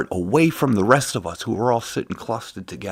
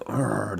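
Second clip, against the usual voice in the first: disgusted grunt; 5 dB quieter than usual. Retold or imitated. Imitating migrants' disgusted look, grunting. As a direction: grunt as if appalled. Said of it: "look of shock and disgust".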